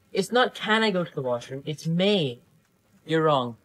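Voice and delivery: usual speaking voice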